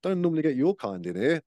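café woman judges a metalhead, snooty. Retold or imitated. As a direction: look down your nose at the customer. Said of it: "he goes".

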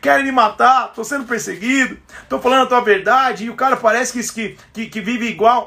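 mock crying lament. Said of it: "Jeremias tava chorando".

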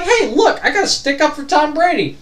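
acted defence. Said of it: "went out there and was like".

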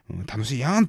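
light Kansai lilt, Kansai-ben yan ending; 関西弁でつい言ってしまう感じ; casual Kansai dialect. Retold or imitated. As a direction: slip into a relaxed Kansai dialect. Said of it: "なんで関西弁になったんだろうね".

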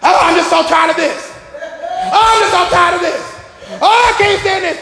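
high, laughing whiny complaint; mock complainer. Imitating complaining church folk, high and whiny. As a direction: whine like a chronic complainer. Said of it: "people that are always complaining".

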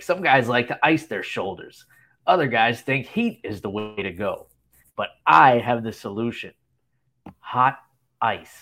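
lightly voiced wacky hitting coach, measured pauses before the punchline; mildly goofy mock-serious movie quote; Daniel Stern's goofy deadpan coach. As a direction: imitate a deadpan screwball coach announcing his big solution. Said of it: "like, deadpan goofy".

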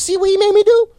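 high, loud mocking scold; mock scolding shout. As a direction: throw it at him like a told-you-so. Mock-scolding the caller, hung up.

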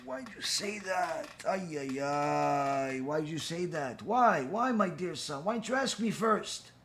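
hushed, near-tearful parent; anguished father. Retold or imitated. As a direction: moan it like a worried father. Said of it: "His father's like".

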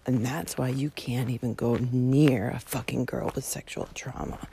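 low, restrained seething; retold raging. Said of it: "Like, fucking raging".

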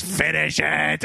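drawn-out mock villain command; Willem Dafoe. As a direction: imitate a menacing movie villain, slowly. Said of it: "He goes".

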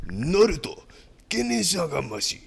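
put-on Japanese accent; hammed-up Japanese accent; mock Japanese accent. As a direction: give it a mock Japanese delivery. Mock Japanese line to copy.

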